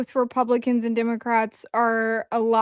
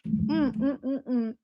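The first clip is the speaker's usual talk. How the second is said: wolfing down food; 7 dB quieter, slower than usual. Real, not acted. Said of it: "I'm eating in your face".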